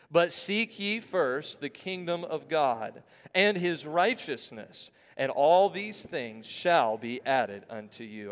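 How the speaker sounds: slow, evenly paced verse reading; deliberate word-by-word scripture recital; congregational recitation. Acted. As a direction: lead a crowd reading aloud in unison. Leads congregation rereading verse aloud.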